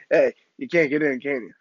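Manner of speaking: cheeky, laughing tease; comical taunt. Retold or imitated. Boy teasing dad stuck in the door, laughing taunt. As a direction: goad him playfully, breaking into laughter. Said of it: "I'm being kinda, like, comical".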